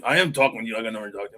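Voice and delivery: lightly voiced career Marine barking back, quick and rigid; stiff Marine voice. Friend on speakerphone at his retirement party, in a stiff, quick Marine voice. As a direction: rattle it off fast in a clipped drill-sergeant cadence, mildly imitated. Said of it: "Stupid Marine voice".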